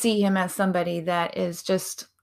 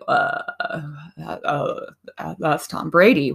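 awestruck; 2 semitones lower than usual. Retold or imitated. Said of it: "our faces just drop".

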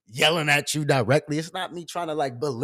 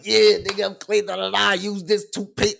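playful, higher hyped-up yell; mock yelling; 4 semitones higher, 3 dB louder than usual. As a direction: re-enact hyped yelling on a livestream. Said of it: "started jumping and yelling like".

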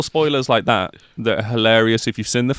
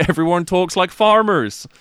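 put-on West Country accent; 5 semitones higher than usual. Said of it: "That was a good attempt".

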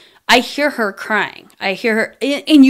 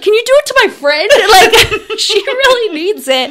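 high, fast, laughing request; mock plea, laughing and pitched up; 11 semitones higher, 5 dB louder than usual. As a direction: beg through giggles.

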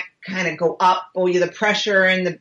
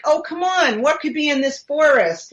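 higher, dismissive quoted thought; retold scoffing disbelief; 5 semitones higher than usual. Sceptic walking into the forest, mock dismissal. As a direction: mimic a sceptic brushing it off. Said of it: "you go out there and you think".

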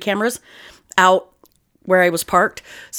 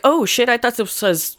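nonchalant; 4 semitones higher than usual. Retold or imitated. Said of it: "all nonchalant about it".

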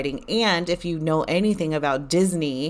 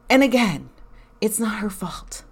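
whispered aside; 4 semitones higher than usual. Real, not acted. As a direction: drop to a whisper, half to yourself. Quiet aside excusing the cashier.

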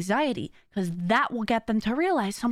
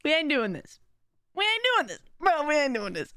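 firm self-talk; 4 semitones higher than usual. Shown as a demonstration.

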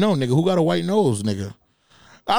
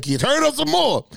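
mock high lady voice; 13 semitones higher than usual. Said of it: "she's like".

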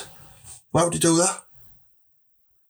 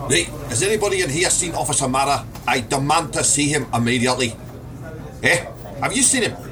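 demanding police sergeant; faster than usual. Acted.

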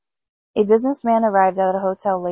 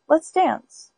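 high corpse voice; 7 semitones higher than usual. Acted. Dead man proposes dancing.

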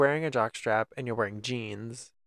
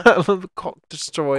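loud, high boastful shout; loud cocky brag; 5 semitones higher, 9 dB louder than usual. Pretend. Bragging bro act.

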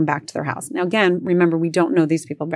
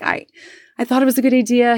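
high-pitched self-justifying plea; retold excuse; 6 semitones higher, 3 dB louder, faster than usual. Wife excusing herself to husband, high-pitched plea. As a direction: offer a feeble excuse, voice pitched up.

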